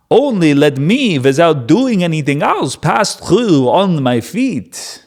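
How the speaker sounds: a light Yiddish-tinged younger voice; lightly voiced young Moses, Yiddish lilt; younger Moses accent. Israelites plead with Edom in a lightly voiced Yiddish accent. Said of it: "a younger Moses type of accent".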